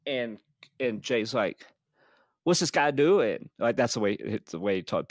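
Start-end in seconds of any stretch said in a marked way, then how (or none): 2.4-3.5 slow, lightly voiced drunk friend; a light take on Jay puzzling over the cop; imitating Jay. Friend at the wheel, lightly imitating Jay's drawl. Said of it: "pretty good imitation".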